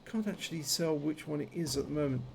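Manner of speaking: talking with a numb jaw; toothache, half the jaw numb. Real, not acted. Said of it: "If you're wondering about my voice at the moment ... Half of my jaw is numb".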